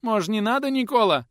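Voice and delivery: put-on boy whining not to do it; whimpering plea. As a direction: whimper and beg. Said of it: "Снова захныкал тот".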